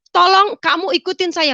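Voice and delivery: high-pitched, insistent appeal; urgent plea. Retold or imitated. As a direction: press them urgently to comply.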